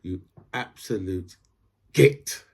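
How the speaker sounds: slow, measured telling-off with a punched last word; understated fury, finger-wagging insult; mock-furious scolding. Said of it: "wave your finger furiously and say".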